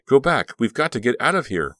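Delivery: loud, high; urgent warning. A narrator's reading. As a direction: drive them back. Warning friends.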